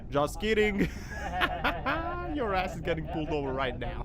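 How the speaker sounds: spring the trap with a wicked laugh; hammed-up gleeful cop; gloating laugh.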